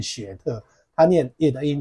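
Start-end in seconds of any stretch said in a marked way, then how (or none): 0.0-0.6 "雪特" as two Mandarin syllables, xue-te; wrong Chinese-style reading. Shown as a demonstration. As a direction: turn the English word into "雪特". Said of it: "这不念雪特".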